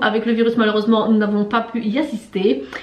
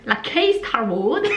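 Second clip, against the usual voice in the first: slow, laughing English-accented "la K Star Road"; bad English accent; slower than usual. Shown as a demonstration. Vlogger mocks her own bad English accent on the street name. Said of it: "avec mon accent de anglais tout pourri".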